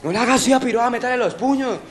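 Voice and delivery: loud, high-pitched mock command; retold order. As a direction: act out egging on your accomplice. El cómplice ordena golpearla. (orden imitada, fuerte y aguda)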